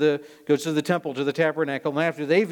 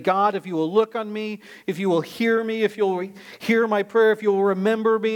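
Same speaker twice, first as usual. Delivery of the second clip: higher-pitched, insistent plea to God; acted-out urgent appeal; pleading prayer; 5 semitones higher, 3 dB louder than usual. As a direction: plead earnestly, building clause on clause. Acting out Hannah's urgent prayer.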